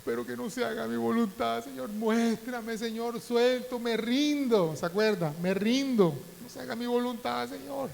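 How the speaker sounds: pleading in a high, slowed, breaking voice; tearful surrender prayer. Retold or imitated. Pastor reliving his tearful prayer for his sick son. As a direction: cry out to God, giving up control. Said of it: "y comencé a llorar".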